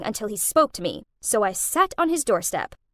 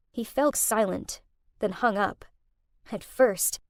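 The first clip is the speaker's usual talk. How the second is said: plain reading voice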